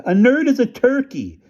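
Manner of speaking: high, loud call across the house; boy yelling an answer to mom; yelled back. Acted. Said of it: "I yelled back".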